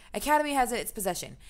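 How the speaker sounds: rushed mock British read. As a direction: race through the sentence in a fake accent. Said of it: "let's read this faster".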